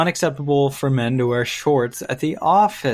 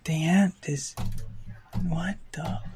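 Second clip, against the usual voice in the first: surprised; 6 semitones higher than usual. Real, not acted. Spots an ant.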